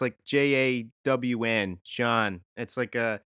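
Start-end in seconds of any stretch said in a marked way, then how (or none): 0.0-1.8 "J A W N" spelled letter by letter, slowly; spelling out jawn. Shown as a demonstration. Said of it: "They say, they say it's". 1.9-2.4 "John" said as the Philly slang jawn. Shown as a demonstration. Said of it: "a term there that means, like, anything".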